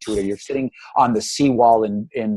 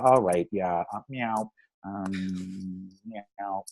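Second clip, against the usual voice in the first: distracted half-hearted meowing; 5 semitones lower, 9 dB quieter, slower than usual. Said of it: "I'll be like".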